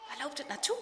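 soft, hushed question; lightly whispered, curious. A narrator's reading. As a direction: ask it quietly while sneaking. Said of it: "Vraagt Harm fluisterend".

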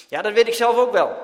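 loud, high irritated snap; snapping back. A narrator's reading. Dirk snapping at Jan about practising, loud. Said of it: "snauwt Dirk terug".

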